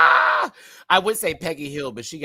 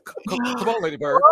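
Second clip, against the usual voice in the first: excited call; 11 semitones higher, faster than usual. Acted. Laughing call to character.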